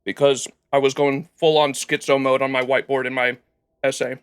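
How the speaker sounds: chewing while talking; talking through a mouthful of rice; mouth full. Real, not acted. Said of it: "talk with my mouth open while I'm chewing".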